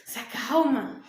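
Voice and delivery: "Se acalma" pushed out loud and sharp. Retold or imitated. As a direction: snap "Se acalma" to someone angry. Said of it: "mais que você se revolta". ("Se acalma" dito mais alto e ríspido)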